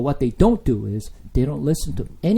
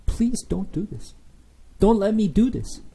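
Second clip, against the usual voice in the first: crying plea; 6 semitones higher than usual. Retold or imitated. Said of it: "He's crying".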